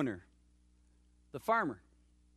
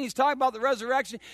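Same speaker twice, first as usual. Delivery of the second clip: usual speaking voice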